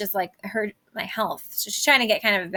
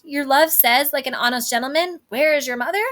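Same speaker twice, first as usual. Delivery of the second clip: higher, louder incredulous echo; mock quoting; 4 semitones higher, 4 dB louder than usual. Juliet quoting the nurse's odd reply back, mock incredulous. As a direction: throw the words back with a rising, baffled question. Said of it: "How oddly thou repliest".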